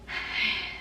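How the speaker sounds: soft shaky exhale; heavy breath. Shown as a demonstration. Acting coach demonstrating breath work, soft sigh. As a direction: let out one quiet heavy breath. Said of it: "You wanna start breathing heavy?".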